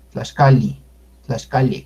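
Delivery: Tlaxcali with the final I eased toward E; softened final I. Shown as a demonstration. Teacher showing learners the in-between vowel, softened final I. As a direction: say Tlaxcali with a weak, E-like last vowel. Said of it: "como no es tan fuerte la pronunciación de I".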